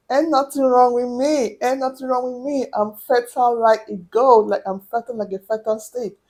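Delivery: lively acted self-assurance; cocky inner boast. Patient boasting in her mind about fertility, cocky. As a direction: brag to yourself, playfully sure. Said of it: "In my mind, I'm like".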